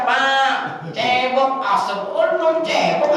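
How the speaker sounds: high mock child yell; child shouting. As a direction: call out for dad like a small kid. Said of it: "anaknya teriak". (teriakan anak kecil yang ditirukan)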